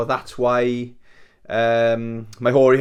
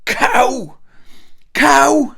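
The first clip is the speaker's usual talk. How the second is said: high, loud yell of one word; shouted warning; 13 semitones higher, 7 dB louder than usual. Retold or imitated. Walker yelling to warn a speeding cyclist, shouted warning. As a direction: holler it out sharply at a distance. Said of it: "So I shouted".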